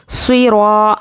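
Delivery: ص را with the long aa held for one alif; elongated alif. Shown as a demonstration. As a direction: stretch the vowel of را evenly after heavy saad. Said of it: "ایک الف کے برابر کھینچنا ہے".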